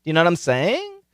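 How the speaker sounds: every phrase ending on a rise, quick; upspeak. Shown as a demonstration. Teacher demonstrates upspeak to podcasters with rising endings. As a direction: lift the ends like questions. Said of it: "she lacks upspeak".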